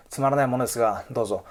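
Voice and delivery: humble polite offering. Shown as a demonstration. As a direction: offer the gift humbly with a small bow in the voice. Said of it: "But if you say".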